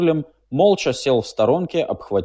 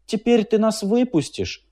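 cautiously; 11 semitones higher than usual. A narrator's reading. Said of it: "осторожно добавил он".

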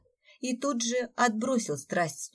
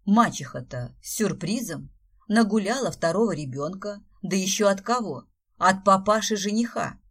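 excited gossip; 6 dB louder than usual. Acted.

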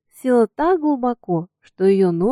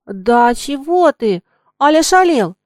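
threatening; 5 semitones higher, 6 dB louder than usual. A narrator's reading. Girl to the coachman, mock-stern and high. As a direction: try to sound stern though unsure. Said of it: "грозно спросила она".

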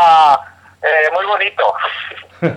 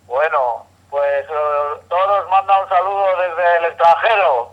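por teléfono. Real, not acted. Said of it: "Tenemos llamada en directo".

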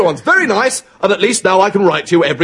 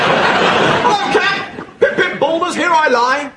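excited greeting; 7 semitones higher, slower than usual. Acted.

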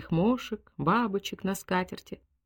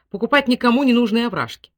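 louder, higher, arguing with his wife; loud indignant husband; 5 semitones higher, 6 dB louder than usual. A narrator's reading. Husband protests loudly to wife over buying ravines, loud. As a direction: push back hard at her silly plan.

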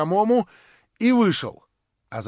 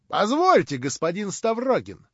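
raised, sharp interruption; sharp address; 6 semitones higher, 4 dB louder than usual. A narrator's reading. Hostess stops Stavrogin as he leaves, addressing him sharply. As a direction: stop him firmly, hitting the first word. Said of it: "резко обратилась к нему хозяйка".

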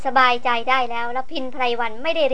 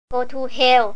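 louder, spat-out curse at the corpse; snarled curse; 4 dB louder, much slower than usual. Acted. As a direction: curse the dead ghoul with contempt. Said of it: "แยกเขี้ยวคำรามว่า". (คำรามสาปแช่งซากผีด้วยความแค้น)

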